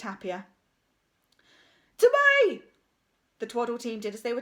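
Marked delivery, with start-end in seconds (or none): 2.0-2.6 loud high demand. A narrator's reading. Bulk demands the ball.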